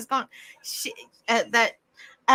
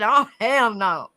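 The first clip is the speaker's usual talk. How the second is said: slow, drawn-out refusal breaking into laughter; laughing mock protest; amused mock refusal; 4 dB louder, slower than usual. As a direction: quote it while cracking up. Quoting a comment while cracking up.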